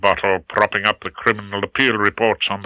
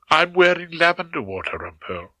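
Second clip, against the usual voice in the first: coy; 7 semitones higher than usual. A narrator's reading. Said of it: "almost coyly".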